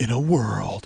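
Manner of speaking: epic movie-trailer announcer delivery. Host of the Forty Year Old Boy tries out a voice, in a movie trailer voice. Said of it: "do I sound like that dude?".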